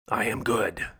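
whispered, self-satisfied "I am good"; smug whisper. Retold or imitated. Mocking the self-righteous reply.

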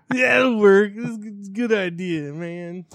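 stoner voice. Acted. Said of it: "Why do we do that as the stone voice".

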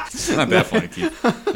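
speaking through helpless laughter; high, laughing protest; can barely talk for laughing. Real, not acted. Breaking up at co-host.

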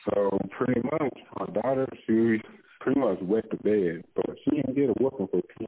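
muffled phone line; muffled, like lying down on the phone; muffled bass only. Real, not acted. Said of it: "you sound muffled or you laying down".

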